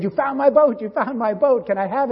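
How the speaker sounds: put-on high, loud, excited child's cry; eager boy's joyful call. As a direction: shout it like a thrilled kid spotting his lost toy. Excited boy finds his boat.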